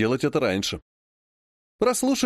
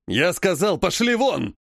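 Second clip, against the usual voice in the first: higher, raging order; enraged bark; 4 semitones higher, slower than usual. Acted. Enraged grandfather orders Alla and Vlad out, barking. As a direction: throw them out. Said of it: "рявкнул окончательно взбесившийся дед".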